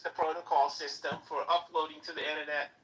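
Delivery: put-on New York Jewish accent. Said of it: "New York Jewy accent".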